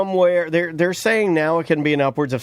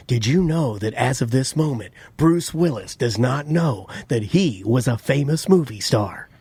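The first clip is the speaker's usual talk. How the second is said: automated voice; 4 semitones lower than usual. Retold or imitated. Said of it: "it's one of the automated voices".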